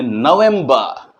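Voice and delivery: "नवंबर" as no-vem-ba, no r; British November. Shown as a demonstration. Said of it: "British English के हिसाब से नवंबर".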